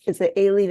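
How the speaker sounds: "Aileen" starting with an "ay" sound; name variant Aileen. Shown as a demonstration. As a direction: say "Aileen" as AY-leen, questioning. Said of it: "you get different variations".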